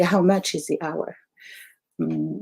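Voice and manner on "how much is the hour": ordinary talk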